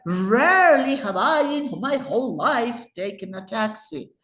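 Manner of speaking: RARELY stretched out and punched, then swooping pitch; really emphatic. Shown as a demonstration. Teacher acting surprised about taxis, really emphatic on Rarely. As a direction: hammer Rarely as if truly amazed. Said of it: "I would try to be really emphatic".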